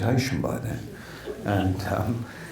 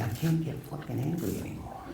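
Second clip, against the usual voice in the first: Joe Pesci impression; 5 semitones higher, 10 dB quieter than usual. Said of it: "Do you wanna hear Joe Pesci?".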